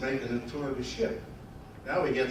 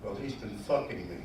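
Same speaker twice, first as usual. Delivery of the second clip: coy confession; 5 semitones lower, 6 dB quieter than usual. Acted. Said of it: "puts her eyes down very coyly and she says".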